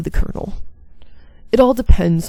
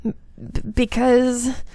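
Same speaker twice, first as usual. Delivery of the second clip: faltering; 2 semitones higher, slower than usual. Acted. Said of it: "She could not answer".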